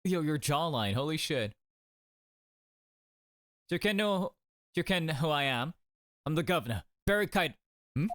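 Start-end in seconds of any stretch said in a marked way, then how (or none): 3.7-8.1 put-on light, imperfect Scottish accent; attempted Scottish accent. Prison governor introducing himself, attempted Scottish accent. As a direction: try out a rough Scottish accent. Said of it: "He's Scottish?".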